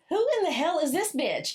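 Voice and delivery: playfully indignant quote; mock affronted demand. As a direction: imitate onlookers demanding to know who she is. Acted quote of the onlookers' reaction.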